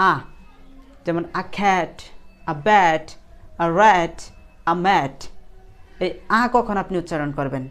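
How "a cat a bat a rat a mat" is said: "a" said as open ah before "cat", "bat", "rat", "mat"; article as "aa". Shown as a demonstration. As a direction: drill each "a" phrase with an ah article. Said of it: "এ কিন্তু অনেক সময় আ উচ্চারিত হয়".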